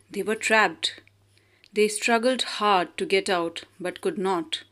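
put-on steady storybook reading for children; story narration. A narrator's reading. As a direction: tell the fable clearly and evenly. Reads a fable aloud.

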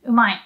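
plain demo of umai; rough umai. Shown as a demonstration. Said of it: "Umai is used by mainly men".

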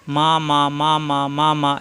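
six even beats of "মা"; short vowel on each "মা"; quick short syllables. Shown as a demonstration. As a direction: rattle off "মা" six times in steady rhythm. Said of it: "হরকতের উচ্চারণ তাড়াতাড়ি".

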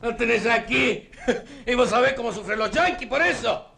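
slow, laughing sarcasm; mocking laugh. To Yoli, laughing at her poison remark. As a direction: tease her through a laugh.

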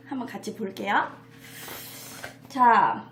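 ordinary talk, nothing marked

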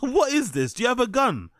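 high, rapid-fire baffled questions; scoffing, pitched well up; incredulous. Real, not acted. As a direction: pile up the questions in disbelief. Mocking the storyteller's gun question.

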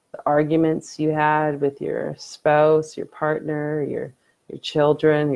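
unhurried meditation guide, long pauses between phrases; guided meditation. Acted. Streamer leads viewers in late-night breathing meditation, calm guiding voice.

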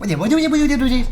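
high, loud, rapid string of refusals; panicked denial. Real, not acted. Gamer dreading what comes at him, panicked pleading. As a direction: babble it in rising alarm.

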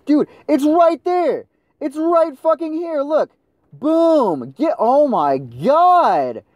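loud, very high-pitched gamer rage; real outraged shouting at a useless teammate; furious yelling. Real, not acted. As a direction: scream it in disbelief, stretching the key words. Raging at teammate ignoring heal box.

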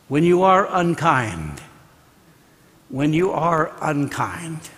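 slow, softened retold counsel; solemn advice. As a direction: let each word sink in, slowly and softly. Mother's solemn advice, retold slowly.

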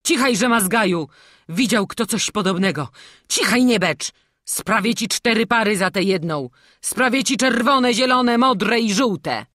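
loud gruff soothing; gruff master consoling; comforting scold. A narrator's reading. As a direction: hush the crying boy, promising gifts. Master hushes crying boy.

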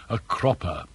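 pause, then give "a cropper" full deliberate weight; weighty pause before word. A narrator's reading. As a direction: hold back, then land "a cropper" as if bizarre. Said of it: "paused to give full weight to the bizarre word".

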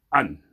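the Creole sound Anne, open a with n. Shown as a demonstration. Teacher models the Creole sound for students, open a then n. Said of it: "Ça fait".

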